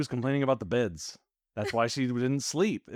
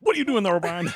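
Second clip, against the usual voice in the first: much higher, loud laughing shout; Cisco yelling; 7 semitones higher, 5 dB louder than usual. Retold or imitated. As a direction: bark it across the room, cracking up. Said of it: "Cisco comes in and goes".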